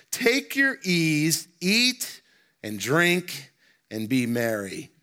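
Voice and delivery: slow, solemn reading of the verse; scripture reading. Acted. Pastor reading the rich fool's plans to the church, slow and solemn. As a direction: read the rich man's words out slowly and deliberately. Reads scripture aloud slowly.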